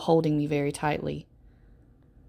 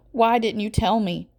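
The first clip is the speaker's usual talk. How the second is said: rising distress; 6 semitones higher, 4 dB louder than usual. A narrator's reading. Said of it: "her voice is getting louder".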